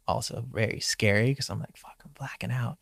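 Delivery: breathy whispered panic, almost voiceless. Retold or imitated. Surfer recalling blackout, whispering the fear. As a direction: hush it like you're fading out.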